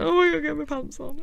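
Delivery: put-on scared child. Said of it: "I'd be terrified".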